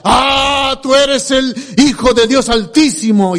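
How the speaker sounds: exclamación declamada con el "Ah" alargado; Pedro exaltado. Retold or imitated. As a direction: proclama solemne imitando al discípulo. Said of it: "Pedro unas veces decía". (discípulo exaltado, imitado por el predicador)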